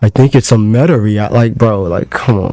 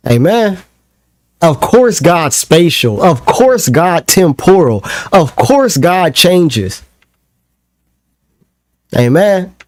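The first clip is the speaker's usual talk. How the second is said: mocking gloat; 4 semitones higher, slower than usual. Mocking victory recap.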